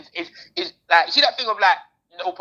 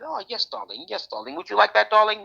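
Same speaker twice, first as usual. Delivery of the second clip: higher-pitched mock posh English; posh white English accent; 5 semitones higher than usual. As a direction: imitate genteel English darlings. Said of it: "Normal white people that talk like this".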